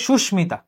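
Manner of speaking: সুস্মিতা as "shush-mita", the m fully sounded; Sanskrit-style pronunciation. Shown as a demonstration. Teacher modelling the exception, m sounded. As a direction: keep a clear m after sh in সুস্মিতা. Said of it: "এটা হবে".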